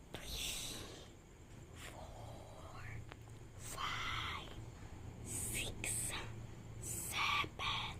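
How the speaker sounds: whispered counting; whispering while hiding. Real, not acted. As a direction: count under your breath. (pabulong na pagbibilang)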